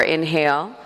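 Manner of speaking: evenly spaced counting, each word drawn out; unhurried, rhythmic yoga count; breath count. Shown as a demonstration. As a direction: lead slow breath and movement by counting. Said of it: "movement and breath to the count of four".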